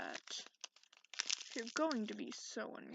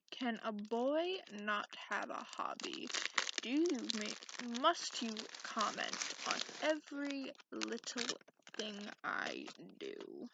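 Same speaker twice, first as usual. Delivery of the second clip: irritated; 4 dB louder than usual. Acted. Annoyed by the listener's comments.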